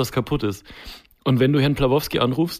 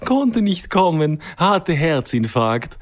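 put-on slow, higher Eastern European accent; mock Eastern European accent; 3 semitones higher, slower than usual. Imitating the handyman on the phone in an Eastern European accent. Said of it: "wo du den Akzent grad so schön nachgemacht hast".

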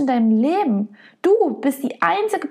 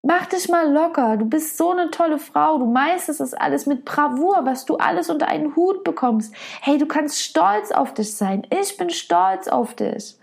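lightly higher, gentle reassurance; reassuring friend; 3 semitones higher than usual. Retold or imitated. Coach voicing a friend hugging someone who is hurting, tender and encouraging. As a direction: comfort her like a dear friend. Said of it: "in den Arm nehmen und sagen".

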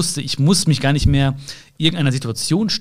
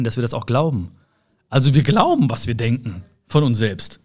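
ordinary talk, nothing marked

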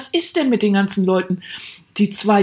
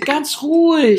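mock soothing; 7 semitones higher, 4 dB louder, much slower than usual. Calming partner like pet.

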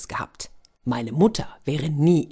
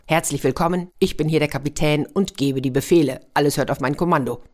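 proud captain. Acted. Captain giving orders.

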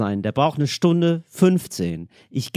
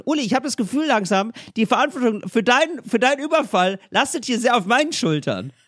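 police negotiator; 4 semitones higher than usual. Acted. Improvises police negotiator pleading with hostage-taker.

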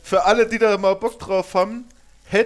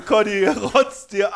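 laughing; 3 semitones higher, slower than usual. Real, not acted. Laughing at friend's reaction.

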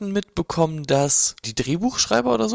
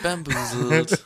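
drawn-out bamboozled; much slower than usual. Acted. Slow mock word.

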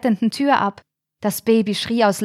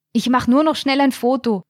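calling out; 5 semitones higher than usual. A narrator's reading. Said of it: "rief ihr Stefan zu".

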